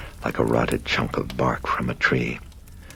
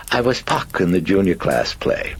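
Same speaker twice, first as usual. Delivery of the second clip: cheeky British voice; 6 semitones higher, 3 dB louder than usual. Acted. British personality.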